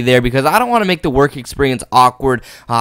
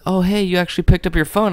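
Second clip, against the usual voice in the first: mock woman's voice; 6 semitones higher than usual. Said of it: "And she was like".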